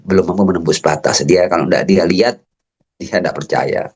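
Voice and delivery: usual speaking voice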